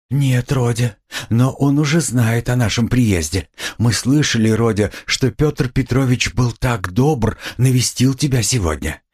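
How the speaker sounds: high-voiced mother, a touch timid. A narrator's reading. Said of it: "с некоторой робостью".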